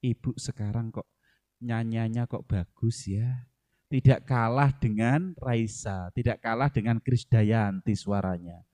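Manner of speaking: a husband softening up his scolding wife, gently flattering. Retold or imitated. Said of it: "bapak-bapak cukup sampaikan".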